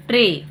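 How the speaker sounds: ट्रे ending on a clear "ay"; long A sound. Shown as a demonstration. Teacher reading an AY example, ट्रे with long "ay". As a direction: say ट्रे with the letter-name vowel "ay". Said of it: "long sound लेंगे ए का".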